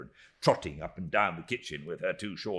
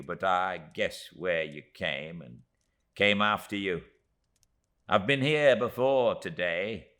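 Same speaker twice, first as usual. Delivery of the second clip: tiny Miss Moucher; 2 semitones higher, 5 dB louder than usual. Acted.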